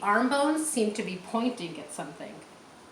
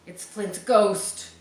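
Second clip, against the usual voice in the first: frightened cry; 7 dB louder, slower than usual. Acted. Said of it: "one of them cried".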